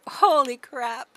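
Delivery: slow, loud laughing exclamation. Real, not acted. Player watching her horse tumble, loud laughing disbelief. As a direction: burst out laughing at the chaos.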